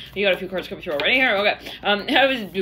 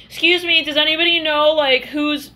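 pleading teacher voice; 6 semitones higher, 4 dB louder than usual. Acted. Teacher asking whose story.

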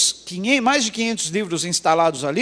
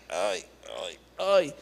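imitated moaning; 2 semitones lower, 9 dB quieter, slower than usual. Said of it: "ele fica, ai".

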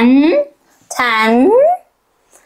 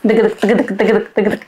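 hoofbeats; 4 semitones lower than usual. Pretend. Horse hoof sounds for children.

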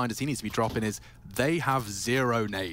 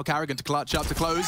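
shouting. Real, not acted. Caster shouts final call.

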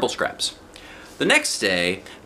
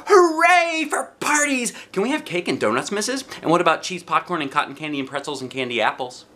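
high, breathless wishlist; excited little girl; 8 semitones higher than usual. A narrator's reading. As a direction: rattle off treats, thrilled. Junie B excited requests.

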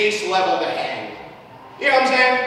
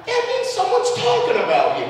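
higher, lilting mom imitation; mom's singsong voice; 11 semitones higher than usual. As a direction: sing it sweetly like mom. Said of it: "she'd always say it as, like, a nice thing".

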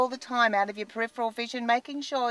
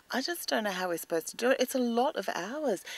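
ordinary delivery

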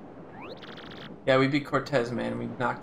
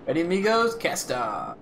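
eager call; 3 semitones higher than usual. Acted. Captain hails crew.

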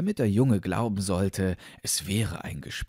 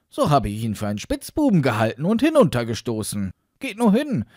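put-on raised, emphatic boy's account; higher, insistent young lad; guileless boy; 6 semitones higher, 6 dB louder than usual. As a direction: explain yourself loudly and frankly.

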